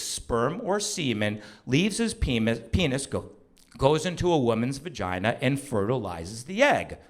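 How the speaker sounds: imitated wife's measured lecture; clinical explanation. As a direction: recite it carefully like a health lesson. Wife takes over, explains clinically.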